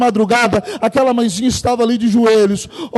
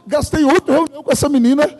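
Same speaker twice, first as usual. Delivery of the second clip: raised, exasperated complaint; mild mock outrage, pitched up; retold indignation; 4 semitones higher than usual. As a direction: vent the frustration of wasted meetings. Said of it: "E eu fiquei indignado, numa raiva".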